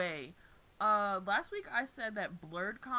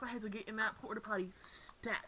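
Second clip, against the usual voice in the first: whisper; 6 dB quieter than usual. Real, not acted. Urgent hushed telling.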